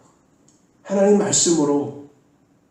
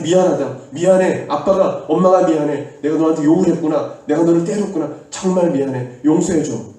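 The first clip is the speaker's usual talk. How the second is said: 간절한 사과; 5 dB louder than usual. Shown as a demonstration. 부모가 아이에게 사과 시연.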